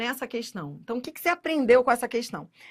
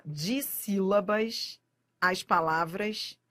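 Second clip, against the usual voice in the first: drawn-out dissílabas, every syllable stretched; slow syllable reading; 4 semitones lower, 4 dB quieter, slower than usual. Shown as a demonstration. Teacher slowing down for students, stretched dissílabas. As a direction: read Dissílabas slowly, letting each syllable sound. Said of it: "vamos devagar".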